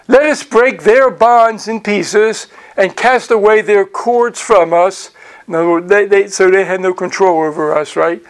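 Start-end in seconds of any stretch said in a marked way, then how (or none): 0.1-5.1 slow, spaced-out verse reading. Real, not acted. Teacher reading what rebels say to God, slow reading. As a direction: read aloud deliberately, drawing out the phrases. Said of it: "try to read it slowly".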